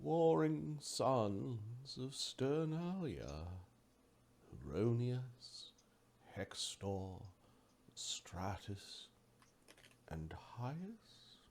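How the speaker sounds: very slow, increasingly hushed voice; solemn Oracle. Acted. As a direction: intone each name with long pauses. Oracle names the war gods.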